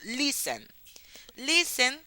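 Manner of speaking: "listen" with a strong first syllable, LIS-en; stress on first syllable. Shown as a demonstration. Teacher showing an unstressed last syllable, first syllable of listen stressed. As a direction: punch the start of "listen". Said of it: "la primera es la tónica".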